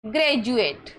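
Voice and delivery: "ग्रेजुएट" with d as j; correct pronunciation. Shown as a demonstration. Teacher models graduate for students, "ग्रेजुएट" with a j sound. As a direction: say "ग्रेजुएट", a j before the u. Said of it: "ग्रेजुएट में डी के बाद में क्या दिखा".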